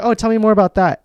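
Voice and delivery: mock curious doctor. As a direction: coax her to keep talking. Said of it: "He's like".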